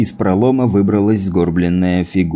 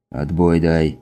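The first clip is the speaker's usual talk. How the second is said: irritated; 4 semitones lower, slower than usual. Acted. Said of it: "раздражённо бросил Архип".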